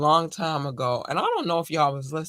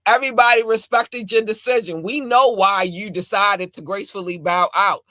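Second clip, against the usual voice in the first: scolding rant; 2 semitones higher, 7 dB louder than usual. Real, not acted. Scolding J. Cole.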